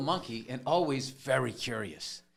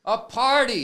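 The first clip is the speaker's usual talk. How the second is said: mock excitement; 9 semitones higher, 9 dB louder than usual. Mock delight at the party.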